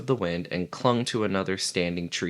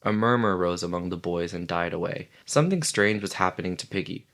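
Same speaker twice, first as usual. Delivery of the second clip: ordinary delivery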